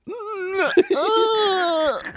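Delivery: high, drawn-out wordless wail; mock politician's long high moan; deliberately bad impression, all noise; Nancy Pelosi. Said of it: "Okay, Nancy Pelosi".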